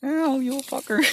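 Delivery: high, loud playful yelp of abuse; joyful mock outrage; endearing cussing. Shown as a demonstration. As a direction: curse them fondly, about to laugh. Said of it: "said endearing".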